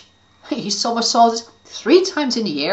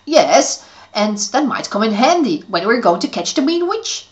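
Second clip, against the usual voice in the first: brave; 2 semitones higher, 5 dB louder than usual. Acted. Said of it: "said Neston bravely".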